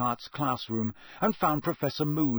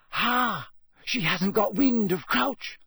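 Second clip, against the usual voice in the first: triumphant; 8 semitones higher, slower than usual. A narrator's reading. Hermione triumphant over newspaper.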